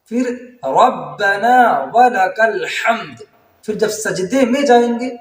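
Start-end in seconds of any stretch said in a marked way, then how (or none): 0.8-3.2 slow, drawn-out prayer phrase; careful recitation. Shown as a demonstration. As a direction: recite ربنا ولک الحمد slowly. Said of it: "کہنا اس طرح ہے". (آہستہ تلاوت)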